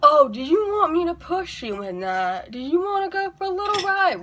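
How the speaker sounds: high, playful mock-serious offer. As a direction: tease them with a straight face. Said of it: "look at the person ... very seriously and go".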